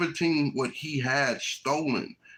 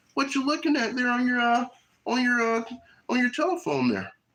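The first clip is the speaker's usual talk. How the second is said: mocking, high-pitched voice. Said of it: "Don't Esau come over there".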